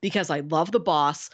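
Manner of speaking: lightly imitated thick New Jersey accent; a hint of a Jersey caller on the radio. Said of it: "talking in this really thick Jersey accent".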